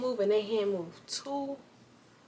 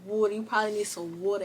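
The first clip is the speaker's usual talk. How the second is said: imitating a country Southern accent; faster than usual. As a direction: say "water" like a Southern country local. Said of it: "had to have that southern accent".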